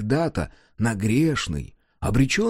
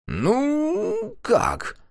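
hesitant. A narrator's reading. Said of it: "несколько замялся старшой".

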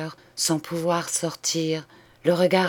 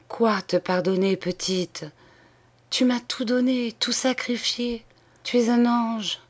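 higher, tearful stammer; stammering in tears; 5 semitones higher than usual. Acted. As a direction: plead through tears with her sister. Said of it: "balbutia dans ses larmes". (balbutié en larmes, voix plus aiguë)

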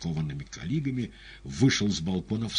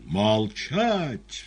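резкий громкий приказ; оборви его криком; гневный вскрик; 7 semitones higher, 6 dB louder than usual. A narrator's reading. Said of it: "вскричал Пилат". (вскричать в бешенстве)

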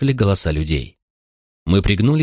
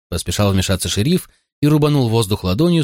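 plain reading voice

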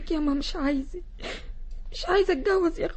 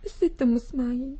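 tearful plea; 5 semitones lower than usual. Acted. Khadija begs the lady.

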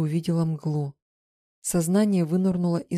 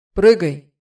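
loud shouted command; loud, urgent call to jump; 12 dB louder than usual. A narrator's reading. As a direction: call up to her in the tree. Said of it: "крикнул Мар".

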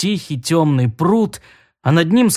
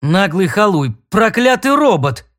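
cursing; 4 semitones higher than usual. Acted. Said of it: "чертыхнулся Флезвелл".

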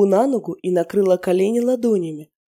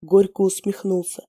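ordinary delivery

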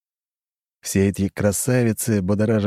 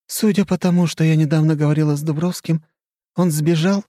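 higher, scheming society lady; coy and calculating, higher; flirty countess; 9 semitones higher, 4 dB louder than usual. Acted. Khrushcheva's voice.

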